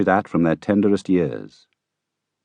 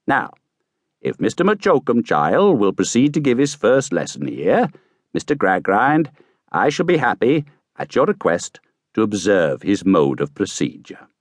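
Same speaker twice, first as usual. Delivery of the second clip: a touch higher, formal and polite; courteous official request; lightly voiced gentleman; 4 semitones higher than usual. Gentleman politely inviting Gradgrind, lightly voiced.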